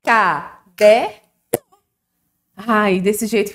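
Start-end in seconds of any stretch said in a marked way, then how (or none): 0.0-1.2 "Caderno" in slow, loud beats, CA, DER, NO; syllable by syllable. Shown as a demonstration. Teacher leading the class in clapping, "Caderno" split by syllable. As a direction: break "Caderno" into three claps' worth of syllables. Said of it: "Vamos bater palma?".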